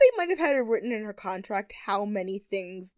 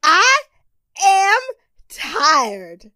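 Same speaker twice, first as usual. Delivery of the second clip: dramatic Tyra; 5 semitones higher, 6 dB louder, much slower than usual. Retold or imitated. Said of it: "she's like".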